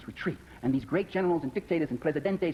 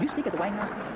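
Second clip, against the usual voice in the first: rising, disbelieving question; incredulous question; 5 semitones higher than usual. Retold or imitated. Friends doubting his White House talks, incredulous rise. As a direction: ask it like you can't believe it. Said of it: "They say".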